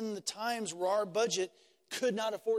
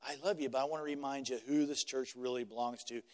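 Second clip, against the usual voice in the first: a lightly voiced loving pastor; gentle pastoral reminder; 4 semitones lower than usual. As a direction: remind them kindly who owns the church. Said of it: "come alongside them and say".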